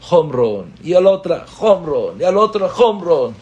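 growing excitement; excited. Retold or imitated. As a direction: call the home runs. Excited baseball retelling.

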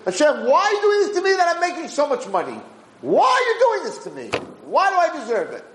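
a hammed-up 'why me' over good fortune; imitating an astonished, thankful believer; mock grateful wonder. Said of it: "No one ever said".

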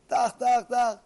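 loud, high mock gunfire; imitated gunshots. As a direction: fire off gunshot noises. Imitating gunshots in the hunting story.

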